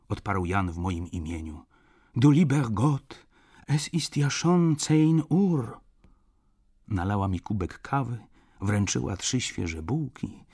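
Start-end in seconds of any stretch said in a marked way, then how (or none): 2.2-5.8 high, exclaiming grandmother, slowing at the end; old woman. A narrator's reading. Grandmother noticing the late hour, fretting old-woman voice. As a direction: fret aloud as an old German woman. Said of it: "wysunęła się staruszka".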